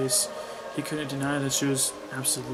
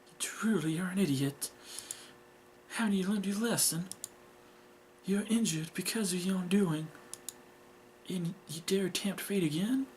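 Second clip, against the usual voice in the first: higher, scolding mother voice; evil mother; 5 semitones higher than usual. Acted. Mother berates injured daughter, evil and scolding. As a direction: scold coldly with raised pitch. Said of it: "This mother's evil".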